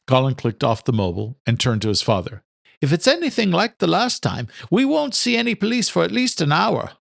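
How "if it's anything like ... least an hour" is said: put-on higher young man's voice, resigned; higher voiced young man, dryly resigned; young son, wry. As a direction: son grumbling to his father about police. Son's voice in story.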